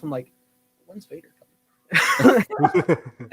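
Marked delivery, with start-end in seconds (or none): 0.9-2.4 slow, whiny impatient ask; impatient kid. Retold or imitated. Kid asking dad in the theater, slow and whiny. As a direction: drag it out like a bored kid.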